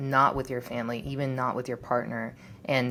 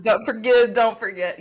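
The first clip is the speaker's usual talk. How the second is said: mocking online sayings; 8 semitones higher, 7 dB louder than usual. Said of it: "all these sayings".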